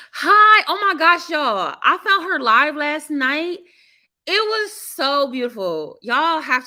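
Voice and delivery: bursting high, loud greeting to the live; real excitement. Real, not acted. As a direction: gush with delight at the new guest. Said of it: "I'm just so hyped".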